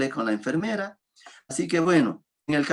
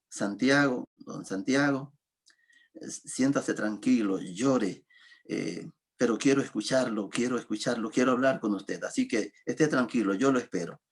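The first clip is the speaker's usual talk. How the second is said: softly soothing, a little lower; calm reassurance; 3 semitones lower, 3 dB quieter than usual. Retold or imitated. Pastor comforting a weeping patient, calm and reassuring. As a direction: settle him down gently, unhurried.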